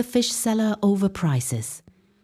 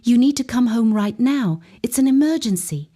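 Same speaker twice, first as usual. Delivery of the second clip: fake terror; 4 semitones higher than usual. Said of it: "her voice shaking with fake terror".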